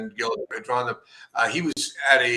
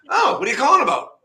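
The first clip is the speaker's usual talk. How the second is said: grumpy guy voice; 7 dB louder than usual. Retold or imitated. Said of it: "He's kinda grumpy".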